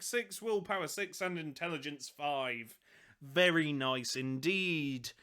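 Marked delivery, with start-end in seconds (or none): 3.2-5.1 "Very nice indeed" drawn out slowly; odd pronunciation. Real, not acted. Host savouring the rules, slow odd pronunciation. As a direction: say "Very nice indeed" slow, lower, oddly stretched. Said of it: "don't know why I pronounced it like that".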